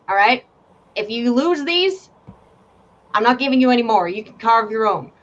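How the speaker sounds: a hint of an exasperated game master, scolding. Game master scolds a player about lost dice, exasperated. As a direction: sigh it out, fed up with lending dice.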